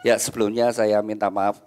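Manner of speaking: speaking through hiccups; suppressing hiccups. Real, not acted. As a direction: hold back hiccups while talking. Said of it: "Saya cegukan ini".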